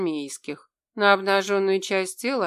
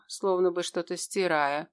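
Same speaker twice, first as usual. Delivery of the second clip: plain reading voice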